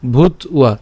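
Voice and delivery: "ভূত উয়া" in two parts; split pronunciation. Shown as a demonstration. Teacher explains the ba in "ভূত উয়া", split sounds. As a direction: say "ভূত", pause, then "উয়া". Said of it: "উচ্চারণটা কেমন হচ্ছে".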